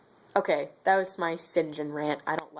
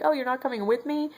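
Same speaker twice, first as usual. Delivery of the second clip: mock surprised St. John; 7 semitones higher, faster than usual. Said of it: "and he's like".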